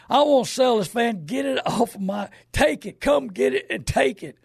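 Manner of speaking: hammed-up upset old man demanding it be taken away; mock shout from a fed-up customer; upset caller. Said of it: "He said".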